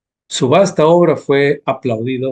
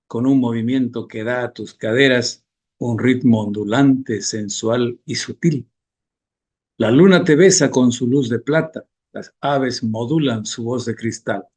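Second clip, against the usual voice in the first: measured verse reading, each stanza falling at its close; declaimed verse in a steady, cadenced radio voice; poem recitation. Acted. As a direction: recite the poem line by line with pauses.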